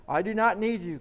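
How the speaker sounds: high, loud defiant cry; convulsed defiance. A narrator's reading. The man thrashing and refusing the demon, loud and high. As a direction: throw the demon off with your voice. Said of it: "convulses the man".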